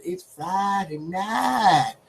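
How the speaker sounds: slow, hushed catchphrase; show catchphrase. Shown as a demonstration. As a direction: drag it out like a TV show's tagline. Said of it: "when we say".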